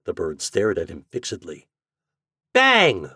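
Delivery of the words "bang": high, loud mock gunshot; crying out. A narrator's reading. Boy pretending to shoot his turkey with a broom, crying out. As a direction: shout it like firing a gun. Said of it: "cried Homer".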